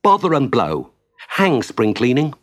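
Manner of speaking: mild exasperated cry; exasperated outburst. Acted. Mole giving up on spring cleaning, exasperated. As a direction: grumble it out with punch.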